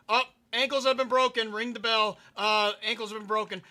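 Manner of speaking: loud, high hype shout; hype callout. Pretend. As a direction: call it like a sports announcer.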